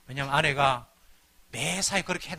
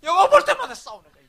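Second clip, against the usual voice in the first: mock wail; 14 semitones higher, 12 dB louder than usual. Lamenting constant fights.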